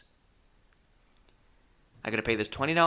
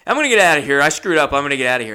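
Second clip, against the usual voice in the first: loud, higher, frantic retold cry; upset outburst; 3 semitones higher, 10 dB louder, much faster than usual. Comic replays telling friends he is leaving, loud upset outburst. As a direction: burst out as if desperate to escape.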